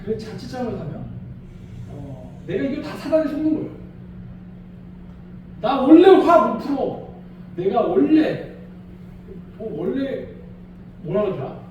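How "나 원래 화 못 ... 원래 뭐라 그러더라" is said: stubborn excuse. Retold or imitated. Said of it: "그런 얘기 많잖아요".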